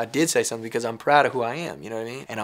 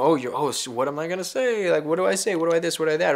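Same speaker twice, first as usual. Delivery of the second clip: flustered white person; 4 semitones higher than usual. Retold or imitated. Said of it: "run away or get away".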